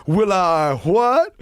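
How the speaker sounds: hammed-up record-style phone banter; a singer. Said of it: "'cause the Big Popper fucking died".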